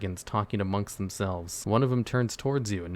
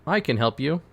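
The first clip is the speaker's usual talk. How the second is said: mildly raised, confident call; confident shout; 4 semitones higher, 4 dB louder than usual. Acted. Player offers the dragon help, confident mild shout. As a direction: call out boldly, a bit higher. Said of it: "shout very confidently".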